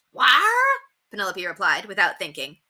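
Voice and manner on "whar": 1 pirate talk. A narrator's reading. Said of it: "Pirate talk was rather contagious".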